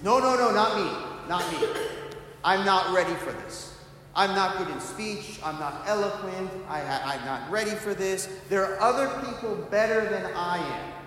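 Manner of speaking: a reluctant man begging to be let off; pleading Moses. Retold or imitated. Preacher voicing Moses refusing God's call, pleading.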